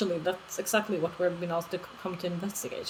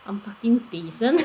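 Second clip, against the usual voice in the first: put-on Scottish accent; 6 dB louder than usual. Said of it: "Scottish accent".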